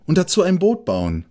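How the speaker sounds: high, quick add-on from the mole; hasty afterthought. A narrator's reading. The mole quickly adds his wish to build a boat, high and hurried. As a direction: tack it on fast and high. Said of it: "fügte noch schnell hinterher".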